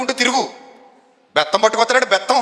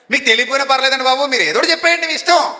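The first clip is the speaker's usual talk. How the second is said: higher-pitched pleading act; coaxing church member; 4 semitones higher than usual. Acted. Church member begs actor to say anything, coaxing. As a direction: coax an honoured guest, voice rising.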